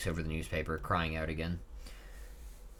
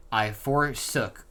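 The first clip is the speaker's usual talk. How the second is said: drawn-out, weighty "I forsook"; solemn drawn-out "I forsook"; slow dramatic read; 4 dB louder, much slower than usual. Shown as a demonstration. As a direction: read "I forsook" slowly, like grand old scripture. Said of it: "that's what it says".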